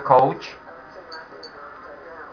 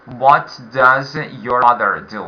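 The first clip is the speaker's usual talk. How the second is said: "What" stressed, slowed down; slower model; 2 semitones lower than usual. Shown as a demonstration. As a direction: repeat it slowly for the class. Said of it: "exercise five again".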